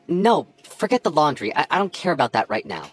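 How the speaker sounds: pleading with her not to go; urgent plea. Acted. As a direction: brush the chore aside, desperate. Urgent plea while she leaves.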